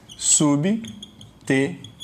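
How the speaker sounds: Subtenente very slowly, sub... te... nen... te; four detached beats on Subtenente; syllable by syllable. Shown as a demonstration. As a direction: count out Subtenente with long gaps between syllables. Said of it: "quantas sílabas?".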